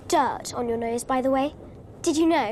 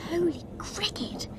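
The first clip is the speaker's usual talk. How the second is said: astonished whisper; 3 semitones higher, 6 dB quieter than usual. Acted. Astonished on meeting Harry.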